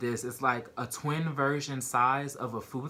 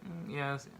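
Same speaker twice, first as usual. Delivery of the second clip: a touch of sadness, hushed start; sad admission. Retold or imitated. Admitting to other inmates she's been here before, mildly sad. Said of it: "sadly, like".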